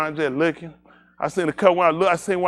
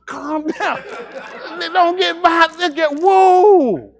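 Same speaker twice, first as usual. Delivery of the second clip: trying to calm; 10 semitones higher, 5 dB louder, much slower than usual. Retold or imitated. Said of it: "I'm trying like, like, calm".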